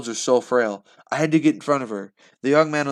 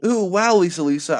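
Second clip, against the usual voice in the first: high, loud awed shout; amazed yell; 7 semitones higher, 7 dB louder than usual. Acted. Boy amazed by Lisa Lisa's attack, high loud yell. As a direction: cheer her on in amazement. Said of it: "I yelled".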